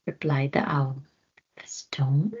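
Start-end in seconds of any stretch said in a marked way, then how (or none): 1.6-2.3 dazed. Acted. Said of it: "replied the gorilla, dazed".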